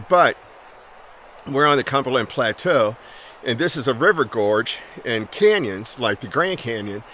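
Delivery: winded, out of breath from hiking. Real, not acted. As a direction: talk while out of breath. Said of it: "I'm out of breath".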